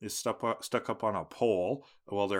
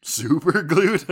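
incredulous; 6 semitones higher, 9 dB louder, slower than usual. Real, not acted. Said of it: "incredulous echo".

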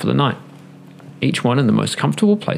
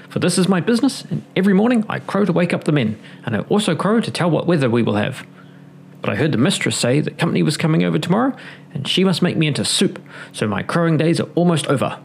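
a lightly higher rooster voice; storybook rooster, mildly raised pitch; 5 semitones higher than usual. Acted. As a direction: play the proud rooster, a touch higher.

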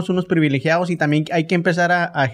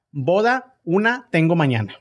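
words in reverse order, slow; backwards speech; slower than usual. Shown as a demonstration. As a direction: read the sentence backwards, word by word. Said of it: "la vamos a tener que decir al revés".

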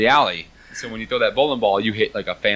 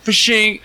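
whoosh sound effect; 11 semitones higher, 4 dB louder than usual. Pretend.

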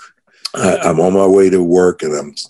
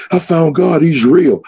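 excited; 10 semitones higher than usual. Retold or imitated. Telling coworkers he found God.

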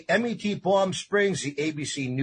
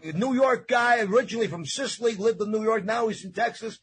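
excited announcer; 6 semitones higher, 3 dB louder than usual. Real, not acted. Host introducing chef loudly.

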